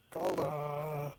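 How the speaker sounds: loud call across the village; yelling a friend's name from a distance. Acted. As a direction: shout the name to someone far off. Kane calls out across village.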